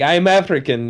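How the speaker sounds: a light imitation of an African accent; just a hint of an African accent on the quote. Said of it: "accent and all".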